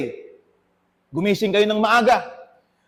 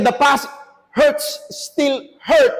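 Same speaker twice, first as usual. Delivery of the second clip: emphatic shout; 3 semitones higher, much slower than usual. Acted. Preacher's climactic emphatic line.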